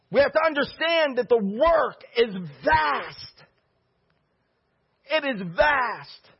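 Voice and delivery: emphatic preaching. Real, not acted. Pastor urging the congregation to disciple, emphatic preaching. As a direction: preach it out, stretching the key words.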